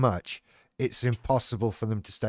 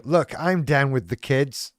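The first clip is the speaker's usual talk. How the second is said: mock out-of-touch politician; 2 semitones higher, 4 dB louder, slower than usual. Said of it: "politician trying to go".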